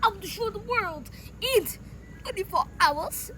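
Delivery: put-on Russian accent; playful attempt at a Russian accent. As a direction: threaten in a mock Russian accent. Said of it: "in my Russian accent".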